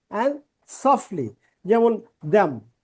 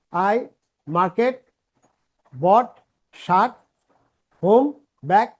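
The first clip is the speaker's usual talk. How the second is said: broken English; much slower than usual. Retold or imitated. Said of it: "মিডল ইস্টে যারা কাজ করতে ওরা এই ধরনের ইংরেজি বলে".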